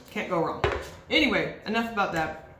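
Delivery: talking with chocolate in mouth; mouth full. Real, not acted. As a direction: talk through a mouthful of chocolate. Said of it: "I still have chocolate in my mouth".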